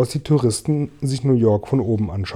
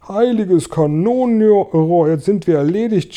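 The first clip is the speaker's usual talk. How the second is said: high, drawn-out cry of alarm; horrified shout; 7 semitones higher, 4 dB louder than usual. A narrator's reading. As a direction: cry out as if all is lost. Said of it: "schrie der Feuerwehrhauptmann". (entsetzter, hoher Aufschrei)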